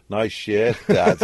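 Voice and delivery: mock teasing, laughing on "Dad"; sons teasing. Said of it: "and they go".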